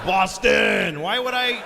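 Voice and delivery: shouting. Real, not acted. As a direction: shout it back at the crowd. Shouting back at booing crowd.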